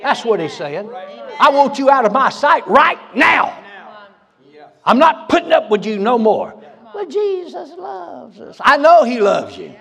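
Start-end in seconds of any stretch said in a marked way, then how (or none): 1.4-6.5 angry rejection. Acted. Jesus sending the lukewarm churchgoer away, in a loud shout. 6.9-8.6 higher, softer and slow mock whine; whiny churchgoer. Preacher mocking the complacent churchgoer's excuse, in a whine.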